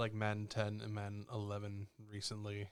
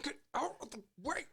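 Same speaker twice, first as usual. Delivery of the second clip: exasperated order. Retold or imitated. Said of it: "you're just like".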